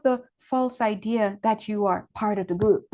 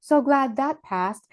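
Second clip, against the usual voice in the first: relieved; 4 semitones higher, 3 dB louder, slower than usual. Acted. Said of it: "I'm just hearing them say".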